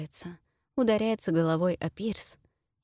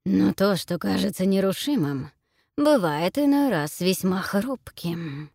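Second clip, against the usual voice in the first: smiling hunter; 4 dB louder than usual. Acted. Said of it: "улыбается охотник".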